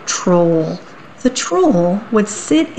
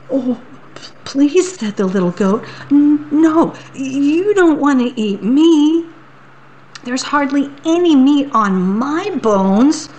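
high, stammering plea; pleading little goat; 6 semitones higher than usual. Acted. Little goat begging the troll for mercy. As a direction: beg the troll not to eat you.

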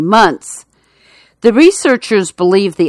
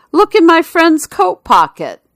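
much higher, smug con man; con artist; 10 semitones higher than usual. Acted. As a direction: deliver the punchline with a smile. Con man reveals his trick.

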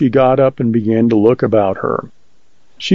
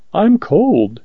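higher-pitched, mildly faltering woman; 7 semitones higher than usual. A narrator's reading. Woman makes an excuse for calling him in, faltering. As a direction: say it timidly, lightly faltering. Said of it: "she faltered".

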